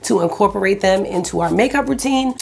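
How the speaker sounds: a touch of real morning voice; just-woke-up voice, a bit rough. Real, not acted. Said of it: "Sorry, my morning voice is real right now".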